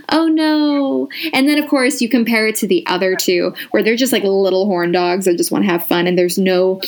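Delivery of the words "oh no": mock dismay.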